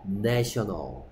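내셔널 slowly, with an open short "e" in 내; 내셔널 drawn out as a model answer; pronunciation demo. Shown as a demonstration. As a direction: sound out 내셔널 for the class, first vowel as in "net". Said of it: "얘는 발음이 뭐라고?".

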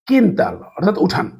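কিন্তাল said slowly with a plain k sound; Portuguese word. Shown as a demonstration. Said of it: "কে উ কি এর মতো উচ্চারণ". (ধীরে কিন্তাল উচ্চারণ)

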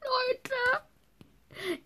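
high, crying shout of joy; overjoyed crying. Real, not acted. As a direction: sob out the disbelief of a dream come true. Girl finds her own horse. (Mädchen schluchzt vor Freude über ihr Pferd)

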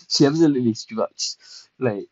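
laughing. Real, not acted. Laughing at Melody's walk.

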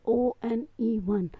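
"O N E one" spelled out slowly, each letter apart; teacher spelling letter by letter. Shown as a demonstration. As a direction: spell it slowly so pupils can follow. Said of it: "इसमें आप देखें".

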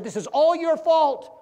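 loud, angry husband blaming his wife; husband scolds wife for keeping him alive, angry shout; scolding his wife. Acted. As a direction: snap at her like a cheated husband. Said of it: "he began to scold his wife".

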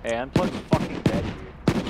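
loud urgent call that a teammate is dead; man down shout. Real, not acted. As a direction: shout it over the gunfire. Teammate killed in firefight.

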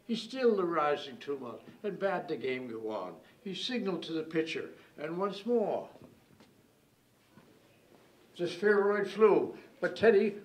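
mock-epic ballad recited with measured build; dramatic poem recital. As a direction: build from hushed narration to a ringing delivery.

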